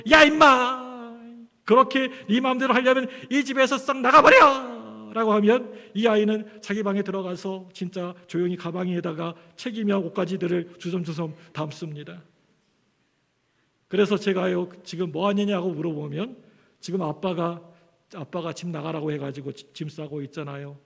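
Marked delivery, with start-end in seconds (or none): 0.1-5.1 furious shout at his son, louder; a father losing his temper, shouting at his teenage son; angry father yelling. Retold or imitated. Father scolding his son, loud angry yell. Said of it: "막 야단을 치다가 화가 나가지고". 14.8-20.8 son's calm reply. Retold or imitated. Son answers while packing bag.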